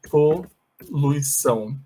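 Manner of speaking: poluição drawn out slowly; slow Portuguese word. Shown as a demonstration. Teacher slowly showing poluição. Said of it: "Poluição em inglês se escreve assim".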